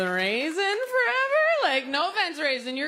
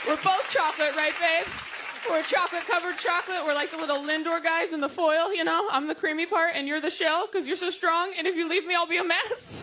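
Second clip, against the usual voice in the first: sugary voice of a partner, pitched up; sweet couple talk; 5 semitones higher than usual. Acted. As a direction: coo it to your babe like a doting partner. Couple reassuring each other.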